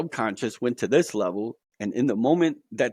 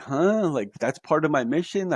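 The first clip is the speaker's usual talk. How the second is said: higher, baffled questioning; puzzled surprise; 4 semitones higher than usual. Retold or imitated. Told he must wake people up, puzzled. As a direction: act out being caught off guard by the news. He reacts to being told his mission.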